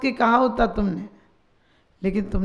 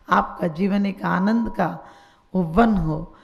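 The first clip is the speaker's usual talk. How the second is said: lower-pitched, measured benediction; spoken blessing; 4 semitones lower than usual. Real, not acted. Preacher blesses listeners' lives with joy, lower benediction.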